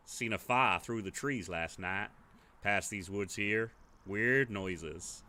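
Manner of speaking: lightly voiced gruff drifter, slow; a slow, wary drifter warning the player; gruff stranger. Player hears a drifter's warning, lightly gruff.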